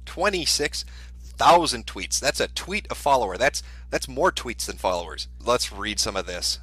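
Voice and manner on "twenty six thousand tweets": drawn-out, higher-pitched disbelief; incredulous. Real, not acted. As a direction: let the figure sink in, word by word. Repeats count in disbelief.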